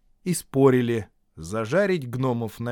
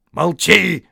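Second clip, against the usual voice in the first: loud, high order to shut up; cutting him off; 7 semitones higher, 11 dB louder than usual. A narrator's reading. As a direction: cut the other troll short. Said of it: "оборвали они его".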